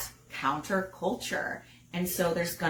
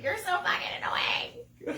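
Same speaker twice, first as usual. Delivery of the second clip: a laughing, much higher whispered jab; mock whisper; 12 semitones higher than usual. Wife imitating her sleepy complaint, a laughing high whisper. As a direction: whisper the insult through a laugh.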